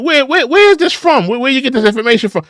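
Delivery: imitated pressing questioner; insistent questioner. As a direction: press for the source in a quick stammer. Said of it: "When somebody's asking you".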